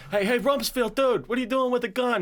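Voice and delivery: put-on high, eager kid voice; lightly high-pitched kid calling up. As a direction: chirp it like a nosy teen. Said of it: "it's just like".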